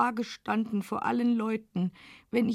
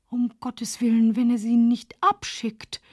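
frightened whisper; 3 semitones lower, 3 dB louder than usual. Acted. Panicked thought.

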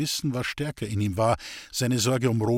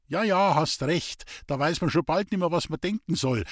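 grumbling; 4 semitones higher than usual. Acted. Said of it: "murrte die Hausmagd".

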